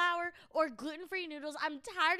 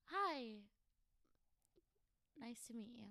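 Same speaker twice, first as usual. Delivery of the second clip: sad little hello; 4 semitones lower, 11 dB quieter, faster than usual. Retold or imitated. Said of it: "worst little hello".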